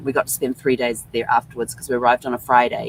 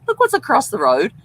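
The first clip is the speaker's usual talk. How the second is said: excited call; 11 semitones higher, 8 dB louder than usual. Retold or imitated. Retold hotel window discovery.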